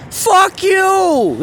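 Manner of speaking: high, loud mock yell of fuck you; retold yell. Neighbor yelling at the early-morning street jam, loud mock yell. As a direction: bark it like an angry neighbor from a window. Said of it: "and I hear fucking".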